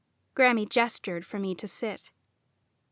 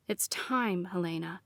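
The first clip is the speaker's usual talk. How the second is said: pressing; 4 semitones lower, 8 dB quieter than usual. A narrator's reading. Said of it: "Lucas pressed".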